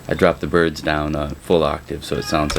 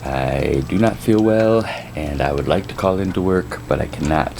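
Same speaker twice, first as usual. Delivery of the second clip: hungover. Real, not acted. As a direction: speak like a real hangover. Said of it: "I am really hungover today".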